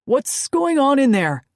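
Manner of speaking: loud call through a door; loud demand. Acted. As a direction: demand an answer loudly. Lou Kent knocking heavily, demanding.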